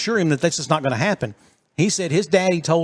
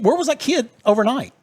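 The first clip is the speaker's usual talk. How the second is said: indignant outrage; 5 semitones higher than usual. Real, not acted. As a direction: demand answers, incensed. Outraged rhetorical questions.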